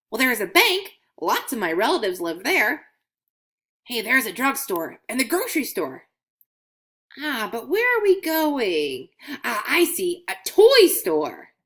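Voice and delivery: a coin peeking out on a trip; curious coin Scratch. Acted. Coin voiced in children's story.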